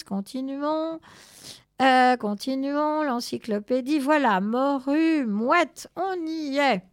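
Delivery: lightly voiced reading aloud to himself; musing scholar growing eager; absorbed bookish cat.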